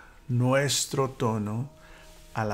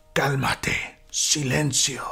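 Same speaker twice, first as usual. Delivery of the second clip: commanding authority; 3 semitones higher, 3 dB louder, slower than usual. Retold or imitated. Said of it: "el tono absoluto de autoridad con la tormenta".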